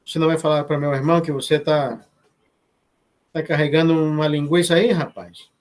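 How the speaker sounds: quick teasing Brazilian Portuguese. Retold or imitated. Telling the dance partner in Portuguese, teasing. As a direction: tease him in Portuguese, quick. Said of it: "I'm speaking Portuguese".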